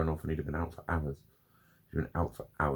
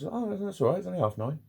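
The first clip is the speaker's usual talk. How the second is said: mock carefree self; 13 semitones higher than usual. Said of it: "I kept looking at my watch".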